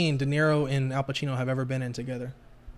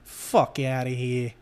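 put-on Italian accent; 2 semitones lower than usual. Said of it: "Your Italian accent is not bad".

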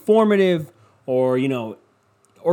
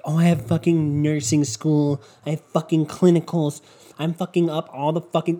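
whiny mocking voice. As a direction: whine like a tired student. Mocking complaining nurses.

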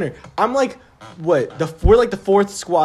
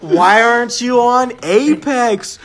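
loud, mocking jeer at a friend; mock taunt; 3 semitones higher, 5 dB louder, much slower than usual. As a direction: bark the taunt like a teasing buddy. Friend taunting over the phone.

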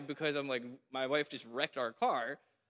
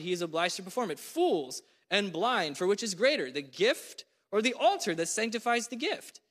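raised, forceful reading of Jesus' rebuke; preaching scripture; 3 semitones higher than usual. Acted. Preacher reading Jesus' woes to the congregation, forceful. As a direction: proclaim each woe, leaning on it.

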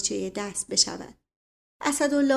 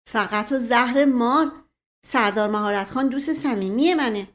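mock scolding; 2 semitones higher, 3 dB louder than usual. Asadollah scolds the boy.

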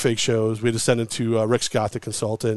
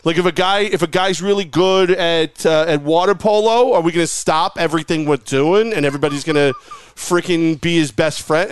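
high, loud fake caller ranting; higher pitched angry fan caller ranting about retirement tours; prank caller voice; 5 semitones higher, 3 dB louder than usual. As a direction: put on a fired-up sports caller voice. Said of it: "like a method actor".

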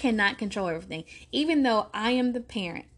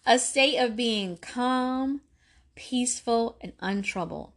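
slow emphatic repeat. Shown as a demonstration. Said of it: "Come on, y'all".

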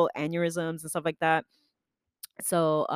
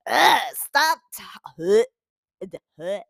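squirm out of the compliment; flustered groan; 6 dB louder, slower than usual. Retold or imitated. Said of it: "I was like".

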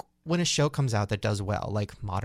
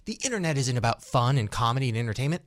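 mock social justice warrior; 5 semitones higher than usual. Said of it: "every social warrior".

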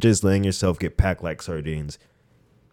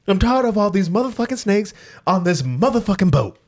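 Samuel L. Jackson impression; 12 semitones higher than usual. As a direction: yell the famous snakes line. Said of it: "snakes may get onto it".

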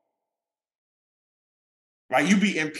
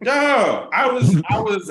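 louder, punchy retelling of sudden aggression; telling friends how he snapped, mock aggressive burst; aggressive outburst; 4 semitones higher, 5 dB louder, slower than usual. Snapped louder at the panhandler, mock aggressive. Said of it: "I was very aggressive all of a sudden".

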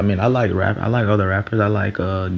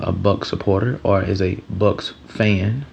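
a little extra weight on "fan" at the end; stress on fan. Real, not acted. Vlogger to viewers, wary of the word fan, light stress on "fan". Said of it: "Notice how I put a little emphasis on the word fan".

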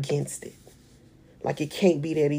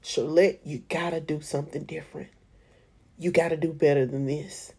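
inner voice; 6 dB quieter than usual. Retold or imitated. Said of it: "I did know in that moment".

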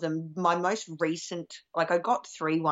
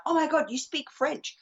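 excited fan; 10 semitones higher than usual. Retold or imitated. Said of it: "she's the sort of person who'd be like".

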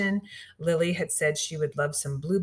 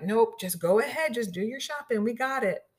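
higher-pitched, breezy retold helpfulness; cheerful reassurance; 6 semitones higher than usual. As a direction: imitate an upbeat shop worker waving the customer on. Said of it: "They were just so cheerful about it".

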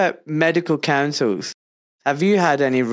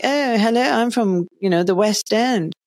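higher-pitched mock West End Glasgow voice; affluent West End Glasgow accent; 6 semitones higher than usual. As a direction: imitate the well-off West End Glaswegians. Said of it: "everyone else is like".

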